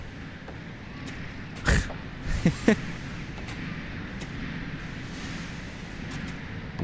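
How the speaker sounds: quiet real giggle; soft chuckle. Real, not acted. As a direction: laugh softly to yourself. Amused that he can drive.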